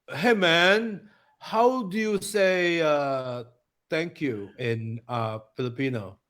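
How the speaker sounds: a mild put-on American accent, slow and drawn out. Shown as a demonstration. Friend demos an American asking for a Filipino phrase, slow American accent. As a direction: ask it like a clueless American tourist. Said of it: "I'm going to do my American accent".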